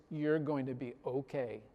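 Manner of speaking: understated matter-of-fact dismissal; deadpan. Retold or imitated. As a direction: deliver it dry, with no grin. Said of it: "no grin, no smile".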